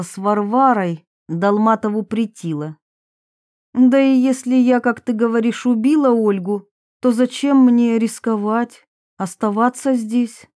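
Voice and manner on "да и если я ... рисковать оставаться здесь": raised pitch, mildly prickly confession; lightly voiced defensive Varvara. Varvara admits a youthful film to her accusers, mildly defensive. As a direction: confess with a touch of defiance.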